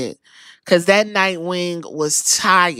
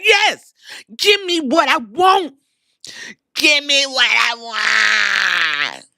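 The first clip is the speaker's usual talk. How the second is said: shouting. Retold or imitated. Seth begging for the match.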